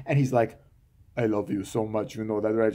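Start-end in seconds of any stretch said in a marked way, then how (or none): 1.2-2.7 low, soft, syrupy lover voice; mock tender husband. Mocking the husband's love line to his burned wife, low and soft.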